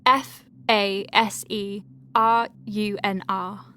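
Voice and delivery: slow letter-by-letter dictation; spelling out. Shown as a demonstration. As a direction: spell each letter clearly for the record. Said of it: "no, hang on".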